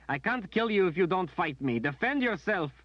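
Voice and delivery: high, loud, tearful urging; high tearful plea to fight back; anguished demand. A narrator's reading. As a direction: force him to defend himself. Berdine pleading, striking him.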